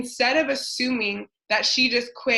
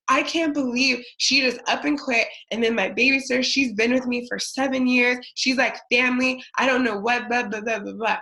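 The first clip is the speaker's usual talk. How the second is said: whiny self-pitying rant, a bit higher and faster; pity party; 3 semitones higher, 3 dB louder than usual. Retold or imitated. To her mentor, a mock whiny pity-party rant. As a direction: complain like the world wronged you. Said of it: "throwing this pity party".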